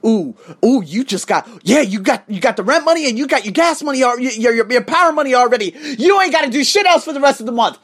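loud, high, goading inner voice; mock your complacent former self; hammed-up, rising excuse-making; old self's voice. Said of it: "old Arsenio's talking about".

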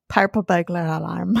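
put-on playful go at a Scottish accent; tongue-twister in mock Scottish; imitated Scottish accent. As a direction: put on a light Scottish burr. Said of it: "It is a great accent".

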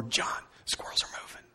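unvoiced early-morning whisper; dad's whisper. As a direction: whisper so nobody else wakes. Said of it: "became a whisper".

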